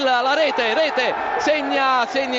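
rising to a shouted goal call; excited goal call. Real, not acted. Live goal call on radio.

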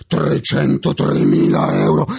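"trecentotremila euro" scandito con forza; enfasi sulla cifra. Real, not acted. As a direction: calca "trecentotremila euro" indignato. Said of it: "E dico". ("trecentotremila euro" sottolineato)

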